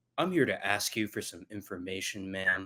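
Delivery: low, dead-level, flat monotone delivery. Imagining how he would deliver a line at the door: imitating a flat monotone voice. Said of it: "that very monotone way of speaking he has".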